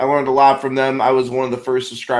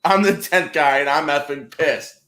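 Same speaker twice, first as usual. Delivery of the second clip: mock slogan; 2 semitones higher than usual. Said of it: "put that on a t-shirt".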